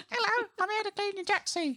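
tiny squeaky elf voice, very high; christmas elf. Pretend. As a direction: pipe it up like a cheerful little helper elf. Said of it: "like a little elf that pops up".

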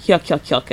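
"Yuck, yuck, yuck" said plainly, level pitch; just report the laugh in a normal voice; "Yuck" repeated with no lift; flat yuck laugh. Retold or imitated. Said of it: "that's what he says".

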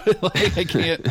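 high, laughing protest; laughing helplessly. Real, not acted. Comics fan confessing they can't read British accents, laughing helplessly. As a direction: give up through a real laugh.

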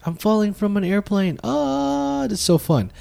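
excited yelling. Shown as a demonstration. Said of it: "the yelling where it's just like".

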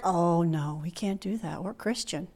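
low, very soft mimicry; mock reluctant churchgoers. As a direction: imitate timid refusal under your breath.

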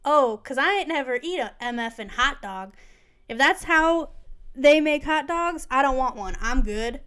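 a hammed-up rapper reaction, slowing on "they make hot dogs"; imitating a famous rapper. The rapper reacting to how hot dogs are made, in a loud mock voice. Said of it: "Snoop said".

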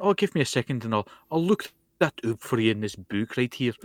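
mock a misplaced Scottish accent; bad Scottish accent. Scot mocking an actor's attempt at the accent, bad Scottish accent. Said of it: "where you think that accent is from".

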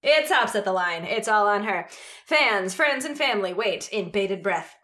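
tense play-by-play build-up; sports announcer voice. Shown as a demonstration. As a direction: call the shot like a broadcaster. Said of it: "I'm gonna try and do my announcer voice".

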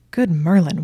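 loud, falling exclamation; excited exclamation. Acted. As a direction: blurt it out in delight. Exclaims at her red lace bra.

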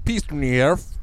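backwards speech. Pretend. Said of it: "try and say it backwards".

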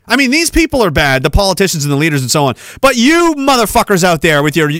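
angry rant. Real, not acted. Ranting at the audience.

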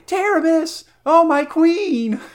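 high, loud anguished cry of a loyal soldier; cry of pity and horror. Acted. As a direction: call out to her in pity and horror, drawn out. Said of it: "a cry of pity and horror".

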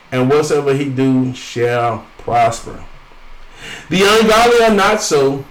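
emphatic, measured Bible reading; scripture reading. Acted. Reads scripture aloud to congregation.

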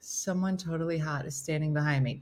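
swooning. Acted. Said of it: "you're like".

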